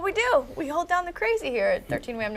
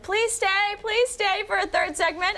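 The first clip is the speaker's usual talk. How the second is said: higher, begging singsong; hammed-up higher-pitched plea; mock pleading; 5 semitones higher than usual. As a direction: beg them playfully to stay. Host acts out begging the guest.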